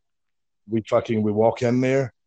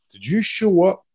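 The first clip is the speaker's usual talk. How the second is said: mock-incredulous confrontation, pitched up; incredulous boss. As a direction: imitate a boss demanding an explanation. Imitates owner confronting their stunt.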